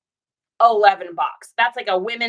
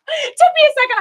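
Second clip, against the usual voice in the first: high and loud through a laugh; 9 dB louder, faster than usual. Real, not acted. Laughing at how long Denise's pun took. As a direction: still laughing at herself.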